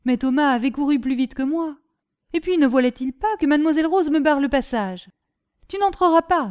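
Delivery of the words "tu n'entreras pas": retold command. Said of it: "me dit-elle".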